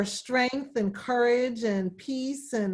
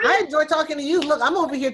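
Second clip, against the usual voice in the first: laughing; 6 semitones higher, 7 dB louder, much faster than usual. Real, not acted. Laughing reply to compliment.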